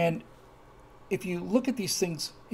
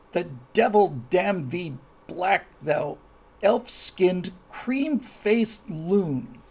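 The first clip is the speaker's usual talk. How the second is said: slow, theatrical Shakespearean insult; much slower than usual. Shown as a demonstration. A lightly theatrical insult, recited for the viewers. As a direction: relish each archaic word slowly. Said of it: "this is verbatim".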